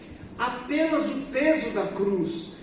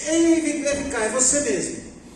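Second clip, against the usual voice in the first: soldier calling out; 5 semitones higher than usual. Retold or imitated. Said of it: "e falou assim".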